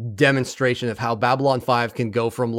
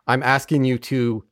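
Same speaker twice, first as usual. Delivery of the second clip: grave order. Retold or imitated. Grave retold order to die.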